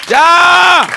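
high loud shout to stop the clapping; loud shout at the crowd; sharp shout. Real, not acted. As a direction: cut the applause with one yell. Yelling at audience to stop clapping.

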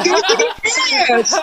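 very high, over-the-top praise; Silly Boy hype. Retold or imitated. Comic in character praising the crowd, very high. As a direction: gush like the silly stage persona. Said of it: "And I go".

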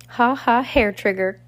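hammed-up gleeful shriek of a laugh; mock scream. A narrator's reading. Villainess following the troupe, mock screaming laugh. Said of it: "Esme screamed".

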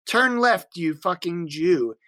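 hammy cartoon-boy GPS voice; Cartman voice. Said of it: "it's just screaming".

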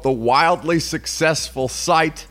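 slow, high, mock-grand read; sarcastic quote. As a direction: drawl it like a bragging slogan. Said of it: "and, quote".

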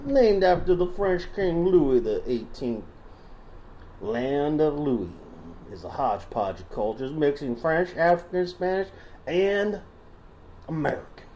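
put-on Southern accent. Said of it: "Should I stop doing the voice?".

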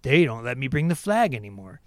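lightly voiced dumb hater whining about his flag; mocking dim racist. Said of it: "they go".

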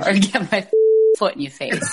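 put-on Boston-accented prison-yard threat. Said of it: "with your Boston accent".

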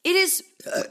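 talking while eating olives; mouth full. Real, not acted. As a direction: talk round a mouthful. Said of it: "I'm eating too many olives".

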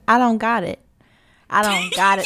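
casual "I don't got it", said flat and final; blunt slangy refusal. Retold or imitated. Alum waving off a student's card, blunt slang refusal. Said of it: "I said".

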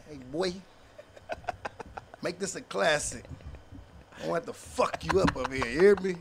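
soft, menacing word in his ear. Retold or imitated. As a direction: lean in and quietly warn him. Calming nervous opponent before battle.

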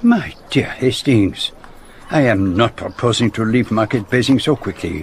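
put-on measured speech in a French accent; French-accented detective. Detective correcting his friend over lunch plans, French accent. Poirot, a character in the drama.

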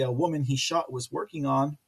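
ordinary talk

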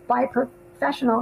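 hiccuping mid-phrase; words broken by a hiccup. Real, not acted. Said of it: "excuse me, I have hiccups".

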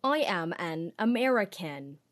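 put-on slow, overdone American accent; British actor badly faking an American accent; fake American accent. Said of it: "do American accents".

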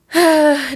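a high sigh breaking into a cry; tearful sigh. Real, not acted. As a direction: let the sigh crack into tears. Sad vlogger breaks down.

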